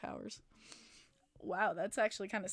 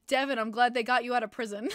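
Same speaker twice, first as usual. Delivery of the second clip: sign read aloud; 5 dB louder than usual. Retold or imitated. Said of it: "a sign that says".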